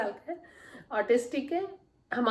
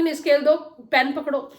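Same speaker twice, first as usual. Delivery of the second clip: louder, bossy demand for the scale; louder bossy parent order; firm demand to child; 3 semitones higher, 6 dB louder than usual. Shown as a demonstration. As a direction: snap the order at the child like a power struggle. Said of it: "तो ये power struggle start".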